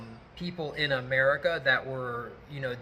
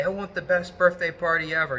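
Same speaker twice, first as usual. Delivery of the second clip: ninja voice; 4 semitones higher, 6 dB louder than usual. Retold or imitated. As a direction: play it like a dramatic ninja host. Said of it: "I would say it in this, like, ninja voice".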